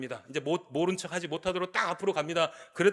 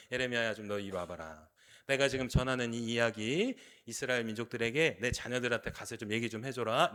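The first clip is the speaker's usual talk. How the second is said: softer, lower fatherly God voice; God speaking; 5 semitones lower, 4 dB quieter than usual. Acted. God calling Jeremiah over, softer and lower. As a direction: voice God gently calling his prophet.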